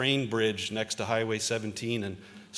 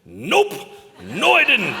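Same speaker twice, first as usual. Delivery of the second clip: laughing no; 12 semitones higher, 12 dB louder, slower than usual. Retold or imitated. Old boss laughing reply.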